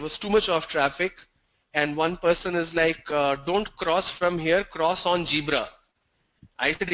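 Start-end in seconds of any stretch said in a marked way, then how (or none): 3.1-5.7 "zebra" said as jeebra; imitated mispronunciation. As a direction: quote the man's j in "zebra". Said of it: "they replace that with".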